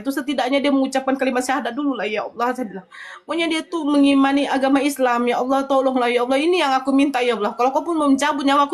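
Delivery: urgent pleading prayer, pouring out; imploring, words tumbling out; tearful plea. Retold or imitated. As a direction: beg God from the heart, retold. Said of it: "saya menangis".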